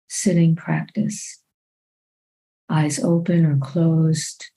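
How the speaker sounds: calm, unhurried meditation guidance with long pauses; measured body-scan voice, phrase by phrase; guided meditation. Real, not acted. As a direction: guide them gently into the body, leaving long silences.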